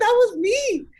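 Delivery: emphatic, high-pitched claim of credit; retold proud insistence. Insisting to disbelieving guests.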